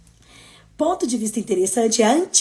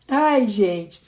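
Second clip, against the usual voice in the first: ordinary talk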